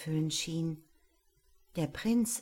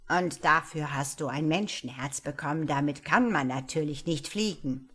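lower, gruff wizard reproach; an old wizard lecturing, gravelly-free but stern; grumbling wizard; 3 semitones lower, 4 dB louder than usual. Acted. Wizard scolds the angel about her human heart, low grumble. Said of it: "brummte der Zauberer".

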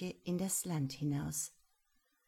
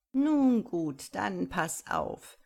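sly cat; 6 dB louder, slower than usual. Acted. Cat agrees.

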